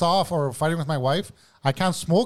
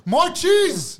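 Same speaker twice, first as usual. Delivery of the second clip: higher, louder hammed-up demand; mock shout; 13 semitones higher, 5 dB louder than usual. Friend mock-taunts store staff while eating, hammed-up yell. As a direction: taunt them with it, laughing. Mocking eating in front of them.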